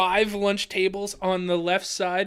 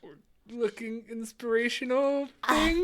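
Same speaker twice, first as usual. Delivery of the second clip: whisper; 3 semitones higher, 7 dB quieter, slower than usual. Real, not acted. Answers in hushed voice.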